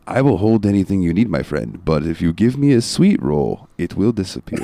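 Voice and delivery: lightly voiced Khajiit companion; a touch of cat-man character voice; Inigo. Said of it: "he'll be like".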